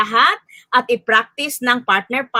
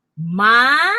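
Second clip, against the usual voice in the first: "Maganda" as ma, gan, da with long gaps; broken into syllables. Shown as a demonstration. Teacher repeating the word puzzle, "Maganda" syllable by syllable. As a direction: pause after each syllable of "Maganda". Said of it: "Ulitin ko".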